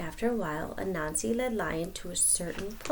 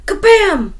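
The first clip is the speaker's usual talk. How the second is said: shouted Kabam, much higher; loud boom; 12 semitones higher, 14 dB louder than usual. A narrator's reading. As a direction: crash it out. Sound effect.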